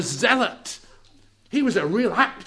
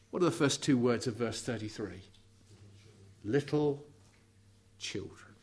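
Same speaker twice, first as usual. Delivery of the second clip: softer and lower until "children." is breathed unvoiced; fading to whisper; 8 semitones lower, 10 dB quieter than usual. Preacher naming what Jesus calls his disciples, whispered tenderly. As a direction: let the words melt into a whisper.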